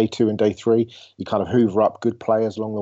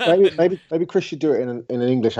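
laughing; 6 semitones higher than usual. Real, not acted. Joking about swapping accents.

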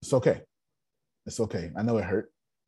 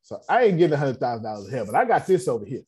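louder, fast and brash; a quick, loud, unashamed confession; mock bold declaration; 4 semitones higher, 5 dB louder, faster than usual. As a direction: blurt it out boldly. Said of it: "Don't be afraid to say".

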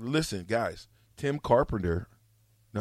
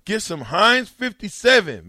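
quoting Matt Hop; 8 semitones higher, 7 dB louder than usual. Retold or imitated. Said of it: "Matt Hop said".

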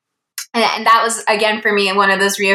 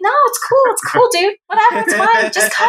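much higher, breezy fake nonchalance; mock casual reassurance; 13 semitones higher than usual. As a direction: play it cool while clearly eager. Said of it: "And I was like".

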